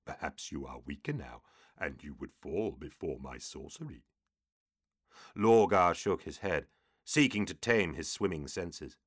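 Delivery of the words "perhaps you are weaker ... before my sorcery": low, hissing demon voice. A narrator's reading. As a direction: hiss it like an old demon. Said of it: "the second hissed".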